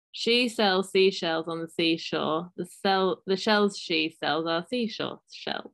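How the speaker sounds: slow lisping tongue twister. Real, not acted. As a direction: say it slowly, lisping on every s. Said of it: "Say that".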